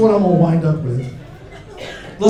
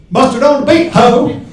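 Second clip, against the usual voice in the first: higher, louder hype shout; hype call; 7 semitones higher, 8 dB louder than usual. Retold or imitated. Comic imitates Instagram guy shouting his hype call. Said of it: "He looks in the camera and goes".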